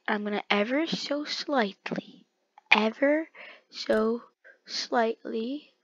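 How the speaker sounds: slow, drawn-out words; stretched out, syllable by syllable; careful concentration. Real, not acted. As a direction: ease through it very slowly. Careful slow move in game.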